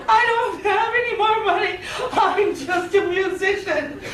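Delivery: mock crying out. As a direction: plead comically, drawing out the end. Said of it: "I cried".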